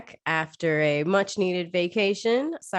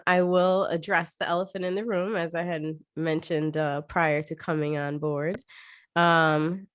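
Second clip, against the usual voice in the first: stuffy nose, sick voice; nasal from a cold. Real, not acted. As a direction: speak as if with a clothespin on the nose. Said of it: "yes, I sound super nasally".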